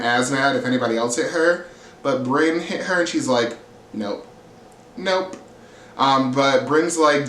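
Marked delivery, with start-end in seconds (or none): 3.9-4.3 low, soft, short refusal; imitated refusal, pitched down; retold refusal. Retold refusal, said two ways. 5.0-5.4 high-pitched short refusal; imitated refusal, pitched up; retold refusal. Retold refusal, said two ways.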